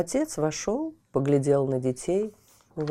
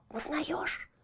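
whispering; 12 semitones higher, 10 dB quieter than usual. Acted. Whispered question.

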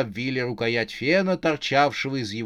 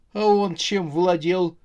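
higher, slow, taken-aback question; stunned question; 4 semitones higher than usual. Acted. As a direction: ask it slowly, dumbfounded. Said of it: "спросил ошарашенный Марк". (ошарашенный вопрос)

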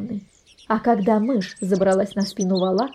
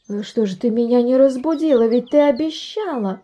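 the cat scolds the mouse for not waking her; indignant cat; 3 semitones higher, 3 dB louder than usual. Acted. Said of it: "возмутилась кошка".

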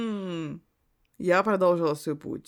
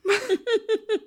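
firm; 4 semitones higher than usual. Acted. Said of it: "утвердительным голосом сказала подруга".

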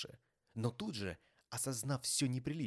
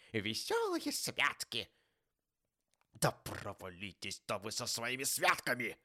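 forceful, exasperated tirade; grouchy Scrooge, ranting; 6 dB louder than usual. A narrator's reading. Scrooge railing at his nephew about holidays, indignant. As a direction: lecture scornfully with loud bursts on the grievances.

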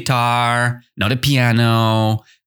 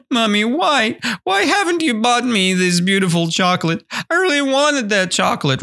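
put-on high, quick little-kid whine; whining child; 11 semitones higher, faster than usual. Little kid to mommy about missing chocolate, whining. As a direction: plead and complain like a child denied a treat. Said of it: "you're whining".

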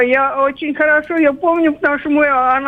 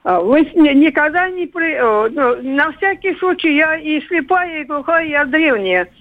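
phone voice. Real, not acted. Elderly caller speaking by phone.

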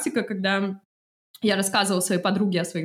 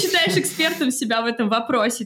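challenging questioning; 4 semitones higher, 4 dB louder than usual. Retold or imitated. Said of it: "пытаются припираться".

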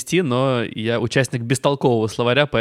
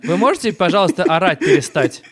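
exasperated; 4 semitones higher than usual. Pretend. Dispatcher scolding caller.

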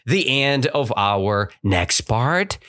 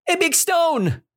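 surprised reveal. Shown as a demonstration. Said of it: "teacher reveals the surprise".

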